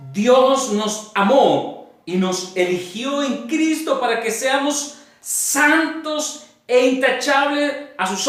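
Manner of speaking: measured Bible reading to a congregation; solemn scripture reading. Acted. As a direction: read the verse out phrase by phrase, letting each land. Reads scripture aloud to congregation.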